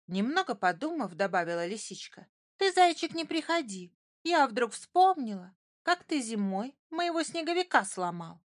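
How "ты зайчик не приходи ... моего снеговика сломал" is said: huffy little fox. A narrator's reading. Fox uninvites hare, huffy.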